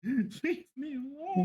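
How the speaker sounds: slow laughing repeat. Real, not acted. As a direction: laugh through it slowly.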